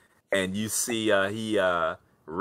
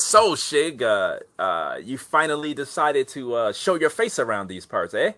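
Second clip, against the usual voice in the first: goblin greeting; 4 semitones higher than usual. Acted. GM voices goblin greeting player.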